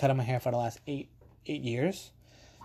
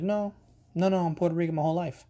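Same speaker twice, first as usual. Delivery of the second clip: quick, higher protesting no, no; emphatic denial; 5 semitones higher, faster than usual. Retold or imitated. Barber correcting a customer who thought him Italian, quick protest. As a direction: brush off the mistake fast and high.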